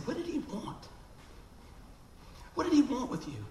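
high pressing question; puzzled demand. Retold or imitated. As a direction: ask it sharp and high, suspicious. Brother demanding to know.

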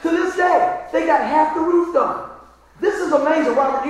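amused retelling. Retold or imitated. Laughing retelling to friend.

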